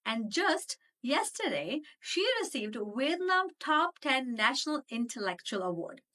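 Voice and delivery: animated, emphatic show intro; podcast intro read. Acted. Host introducing her guest to the audience, upbeat announcer read. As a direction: introduce the guest with punched key words.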